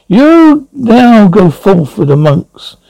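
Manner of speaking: slow, high, drawn-out command; commanding mystic voice. Acted. The controlling Voice orders Songstein away, slow and commanding.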